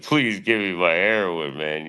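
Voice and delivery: fake-sob begging like a dope addict; a put-on tearful addict, begging; mock junkie begging. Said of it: "We learn how to cry".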